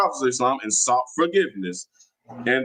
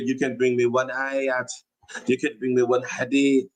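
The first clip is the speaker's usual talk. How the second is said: imitating a Saudi Arabian sheikh's accent with mock authority; lightly put-on Saudi Arabian accent, sheikh laying down the law. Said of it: "Saudi Arabian sheikh accent".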